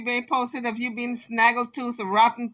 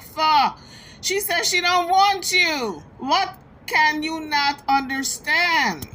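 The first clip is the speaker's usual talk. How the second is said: exasperated; 5 semitones higher, slower than usual. Real, not acted. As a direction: spell it out to someone who won't listen. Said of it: "now you got me so upset".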